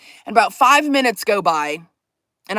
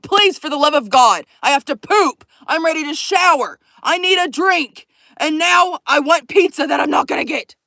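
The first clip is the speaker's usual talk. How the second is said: exasperated plea; 4 semitones higher, 3 dB louder than usual. Acted. Pleads over list of needs.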